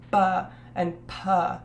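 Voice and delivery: ba and pa said slowly, with a firm puff of air on each; plosive demo. Shown as a demonstration. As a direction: pop the b in ba and the p in pa. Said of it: "a plosive".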